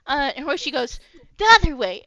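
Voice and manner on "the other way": loud, higher correction; sudden call. Acted. Hoishi loudly corrects himself after going the wrong way, calling out. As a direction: blurt it out all at once.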